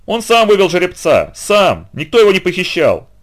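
high, loud frantic accusation; hysterical yelling. A narrator's reading. Trainer rages at the grandfather about the stallion, hysterical. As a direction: shout it out, losing control. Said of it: "истерично вопил тренер".

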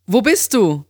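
high-pitched friend asking; Amy. A narrator's reading. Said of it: "fragte sie".

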